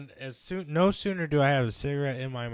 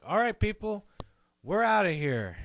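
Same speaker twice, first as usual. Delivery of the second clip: higher, louder mock announcement; imitating the band leaving; 7 semitones higher, 5 dB louder than usual. Band members tell the crowd they're leaving, higher and louder. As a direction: toss it off like a bored band calling it quits. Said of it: "and then they're like".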